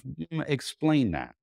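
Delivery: imitating a wary doctor asking him to explain; mock skeptical doctor drawing it out. Doctor skeptical about carnivore diet.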